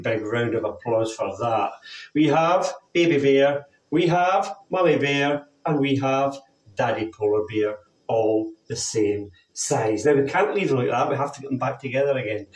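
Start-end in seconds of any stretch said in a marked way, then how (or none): 2.1-10.0 put-on reading to children. Tells children a story.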